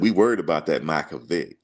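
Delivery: imitating a coach's country accent; lightly put-on country accent; country accent, quoting the worried coach; Coach Bowden. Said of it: "he had the real country accent".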